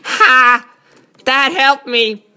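lightly voiced mock nerd; Gohan. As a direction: send up an eager bookish kid. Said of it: "My perfect Gohan impression".

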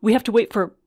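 frightened wife pleading with her hurt husband; urgent pleading. Retold or imitated. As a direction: beg him to lie still. Wife begging injured husband.

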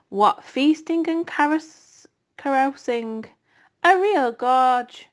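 a lightly voiced boastful rat, slow in places; gluttonous rat. Templeton brags to the barn animals, gloating. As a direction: gloat over the rotten leavings.

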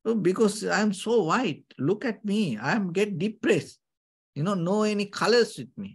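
a lightly voiced swan moaning about being white; complaining swan. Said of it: "this swan start to complain".

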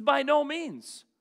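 preacher booming the apostle's reply; emphatic refusal. Retold or imitated. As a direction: thunder out Paul's no. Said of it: "He says".

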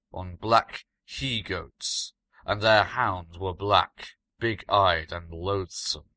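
a slow, grave recital of a dark omen; slow ominous reading. Acted. Stevenson reads the ancient passage aloud to his friend, slow and ominous. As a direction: read it slowly, like an old chronicle of dread. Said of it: "read the passage aloud".

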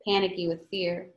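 reading a novel aloud to the class, voicing characters lightly; steady read-aloud storytelling; story narration. A narrator's reading. Reads novel chapter aloud.

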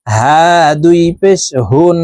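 হা breathed from the start of the throat; light হা from the top of the throat; small ha. Shown as a demonstration. Teacher shows the small হা from the upper throat. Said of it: "এই হা ছোট হা, হলকের শুরু থেকে পড়ব".

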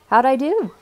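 a mock rasp after swimming; lightly rasped, breathless question. A narrator's reading. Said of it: "he rasps".

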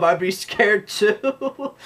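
high, very slow teasing voice; mock scared. Teasing his partner about the hot tub, slow high mock voice. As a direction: drag it out in a silly high voice. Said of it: "teasing movie quote".

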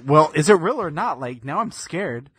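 a touch of worry, retold; mild imitated fear. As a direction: imitate an uneasy wife asking for reassurance. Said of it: "still scared".

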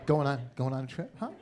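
quick, sneering parrot of the neighbor's question; mocking repeat. Comic mocks his neighbor's small talk, quick sneering parrot.

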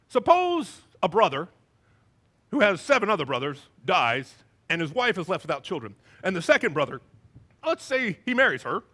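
lightly voiced, measured Sadducee questioner; Sadducee talk. Sadducees putting a would-be smart question to the teacher, lightly mocked Sadducee talk. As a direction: pose it like a hypothetical, with weighty pauses. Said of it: "this is how the Sadducees talk".

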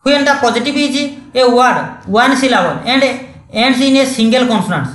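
slow, deliberate rule reading. Shown as a demonstration. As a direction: spell out the textbook rule word by word. Reads the rule from screen. (ଧୀରେ ଧୀରେ ନିୟମ ପଢ଼ିବା)

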